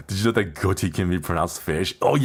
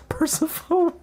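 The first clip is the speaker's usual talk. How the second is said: laughing. Real, not acted. Laughing mispronunciation.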